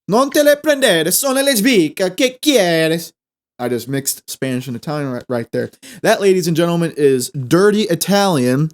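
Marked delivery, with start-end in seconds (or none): 0.1-3.1 put-on high, bouncy kids'-show singsong, much higher; hammed-up children's-band-style chant. Shown as a demonstration. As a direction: sing it out like a children's TV entertainer. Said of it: "the Wiggle style".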